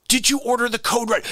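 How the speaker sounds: lightly nasal, pushy lawyer question; Tom Cruise impression. Lawyer grilling the witness, lightly voiced. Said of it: "Tom Cruise impression".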